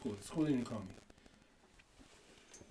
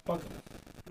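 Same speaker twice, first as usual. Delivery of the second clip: whispered; 16 dB quieter than usual. Retold or imitated. Retold dismissal, whispered.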